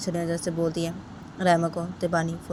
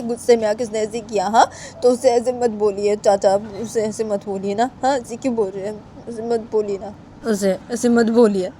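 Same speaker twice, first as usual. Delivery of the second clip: put-on pleading child Bani; 4 semitones higher, 6 dB louder than usual. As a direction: plead with uncle, stretching the words. (धीमी, खिंची हुई मिन्नत)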